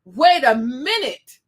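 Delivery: from calm to a firm call; speaking up. Retold or imitated. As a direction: build it up to a stand. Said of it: "they don't speak up like".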